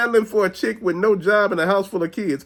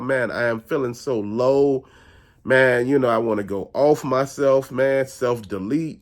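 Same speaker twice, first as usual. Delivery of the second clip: mock despair; 6 semitones lower than usual. Mimicking depressed people.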